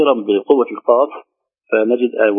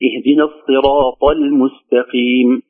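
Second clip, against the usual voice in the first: slow اهدنا الصراط المستقيم with long vowels; measured Quran recitation; slower than usual. Shown as a demonstration. Teacher reciting the verse being taught, measured recitation. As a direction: recite unhurriedly on a steady tone.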